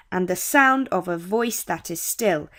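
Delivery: "and the sound of a voice that is still" in triplets, stress on every third; anapestic stress. Shown as a demonstration. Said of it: "two weak syllables and one stressed".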